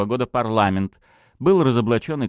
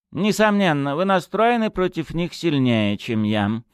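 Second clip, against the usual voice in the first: musing; 9 semitones higher than usual. A narrator's reading. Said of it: "задумчиво произнёс глава колледжа".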